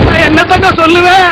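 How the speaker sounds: mock-tragic wailing; tearful lament. Guest dodging the father's question, tearful. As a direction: stall the bad news with weeping. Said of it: "நீ அழுகுறத பார்த்தா".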